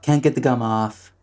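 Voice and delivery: lightly parodied presidential voice; Donald Trump impression. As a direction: repeat it like a boastful politician's parody. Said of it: "That's my Donald Trump impression".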